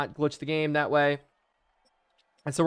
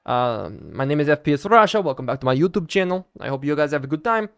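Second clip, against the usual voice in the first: lightly put-on Russian accent; a hint of mock Russian accent. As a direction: talk like a Russian YouTuber greeting viewers. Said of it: "I can do the accent a little bit".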